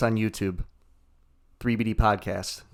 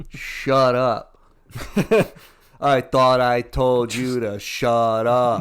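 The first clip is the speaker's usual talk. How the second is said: mock yelling; 6 dB louder, much slower than usual. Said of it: "Yelling at 'em immediately".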